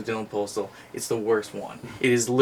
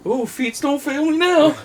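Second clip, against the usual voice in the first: high, louder mock panic while fleeing; scared voodoo chicken guy; 14 semitones higher, 5 dB louder than usual. Voodoo chicken guy bolting from danger, hammed-up panicked yelp. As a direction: yelp it like a cartoon coward about to run off. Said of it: "the voodoo chicken guy goes".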